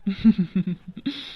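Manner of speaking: acted childlike sobbing; whimpering little-girl sobs; child's crying. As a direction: sob in short, quick bursts. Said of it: "இதுக்கு போய் யாராவது அழுவாங்களா".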